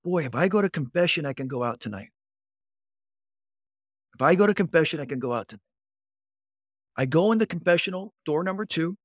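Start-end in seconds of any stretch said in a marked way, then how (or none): 0.0-2.1 scheming thought. Retold or imitated. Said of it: "I thought to myself". 4.1-5.6 scheming thought. Retold or imitated. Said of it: "I thought to myself".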